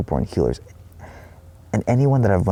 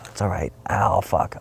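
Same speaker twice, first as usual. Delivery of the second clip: soothing animal voice; 4 dB quieter than usual. Retold or imitated. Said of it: "It's almost like".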